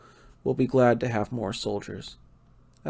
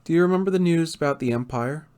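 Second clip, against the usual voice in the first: a bit higher and louder, upbeat; eager to share his scheme; high spirits; 4 semitones higher, 3 dB louder, faster than usual. Acted. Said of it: "he continued on in high spirits".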